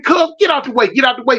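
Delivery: sharp shout, clear the line; shouted order. Retold or imitated. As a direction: yell him out of the way. Ordering homie aside to shoot.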